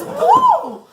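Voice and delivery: high, laughing ooh of glee; delighted ooh. A narrator's reading. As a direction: squeal with delight at the find. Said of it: "And he says".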